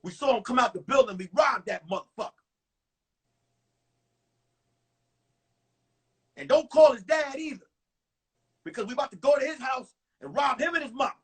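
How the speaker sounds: loud, fast menacing mock threat; fake robber text. Son texting his girlfriend as a fake robber, loud and fast. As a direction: ham up a thug's warning. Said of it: "I text her back".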